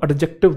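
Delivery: "एडजेक्टिव" mispronounced with an audible D; D pronounced. Acted. Mimicking a pupil telling the teacher today's topic, "एडजेक्टिव" with D sounded. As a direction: put a hard D before the J in "एडजेक्टिव". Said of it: "एडजेक्टिव नहीं है ये".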